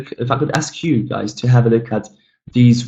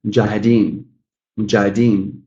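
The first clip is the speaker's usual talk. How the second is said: "mujahideen" with the final DEEN stressed; fourth-syllable stress. Shown as a demonstration. Teacher repeating an example, fourth-syllable stress on "mujahideen". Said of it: "sorry, fourth syllable".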